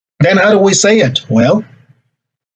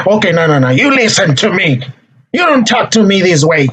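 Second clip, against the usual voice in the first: mock stern reprimand, pitched up; aggressive parent; 4 semitones higher than usual. Shown as a demonstration. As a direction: lay down the law to a teenager. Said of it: "That's aggressive communication".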